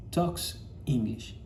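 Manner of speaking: each word drawn out slowly for the class; slow read-aloud. Shown as a demonstration. Teacher reading the example aloud to students, slow and careful. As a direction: read it slowly, like a model sentence. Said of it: "Y lo leemos de esta manera".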